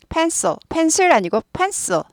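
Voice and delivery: pencil said very slowly, high, with an aspirated p; slow, high pencil contrast demo; pencil, wrong then right. Shown as a demonstration. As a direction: contrast the Korean-style pencil with the English pencil. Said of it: "펜슬 아니고 펜슬 한다".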